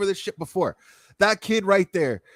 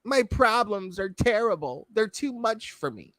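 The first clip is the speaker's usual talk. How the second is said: mock whine; 4 semitones higher than usual. Mocking the whiner.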